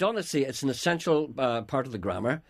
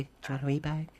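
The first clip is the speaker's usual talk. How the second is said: tender and caring; 4 dB quieter, faster than usual. Shown as a demonstration. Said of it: "it means that I'm tender and caring".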